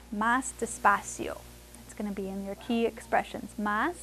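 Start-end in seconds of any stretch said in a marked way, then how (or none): 0.1-1.4 slow demo. Shown as a demonstration. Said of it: "more slowly".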